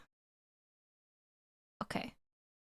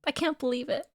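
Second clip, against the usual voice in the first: dawning joy; 8 semitones higher than usual. Real, not acted. Streamer reacting to ending.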